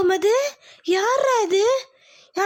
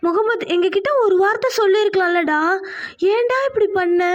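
louder, raised reproach at her son; hurt scolding; 2 semitones higher, 3 dB louder than usual. Acted. Mother rebuking her son for marrying without telling them. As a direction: voice rising in wounded anger.

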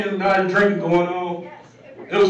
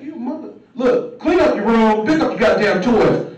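scolding dad; 3 semitones higher, 4 dB louder than usual. Retold or imitated. Father scolding daughter.

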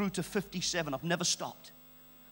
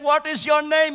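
retold insistent question; 9 semitones higher, 11 dB louder than usual. Retold demand to God.

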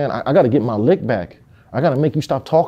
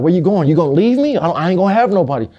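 higher, urgent mock plea; retold pleading; 6 semitones higher, faster than usual. Foster brother to departing sister, retold pleading. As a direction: imitate a kid begging her to stay.

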